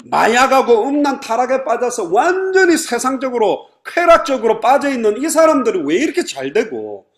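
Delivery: loud, high-pitched plea of complaint; acted lament, pushed high and loud; aggrieved complaint. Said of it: "이런 하소연인 거예요".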